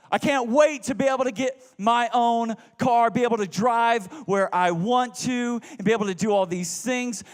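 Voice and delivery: put-on excited teenage wish; eager. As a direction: blurt it out like a kid dreaming of freedom. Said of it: "my response would be".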